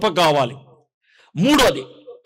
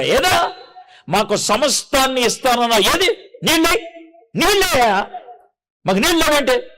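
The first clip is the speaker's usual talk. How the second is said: higher mock complaining whine, pushing up on నీళ్ళే; people arguing; 3 semitones higher than usual. Preacher voicing the Israelites complaining to Moses, mock indignant and high. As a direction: act out the grumbling crowd demanding water. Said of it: "అని వాళ్ళు వాదించారు".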